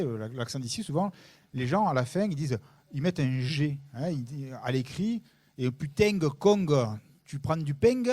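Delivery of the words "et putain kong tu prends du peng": imitating the fake Marseille G ending; clumsy put-on southern accent; mock Marseille accent. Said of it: "On ne parle pas comme ça". (imitation moqueuse de l'accent marseillais)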